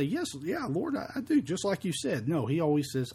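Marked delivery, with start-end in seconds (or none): 0.0-1.4 mock eager answer. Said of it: "you say".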